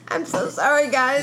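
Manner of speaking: weak voice from a cold; croaky, sickly voice. Real, not acted. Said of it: "I know I sound sickly".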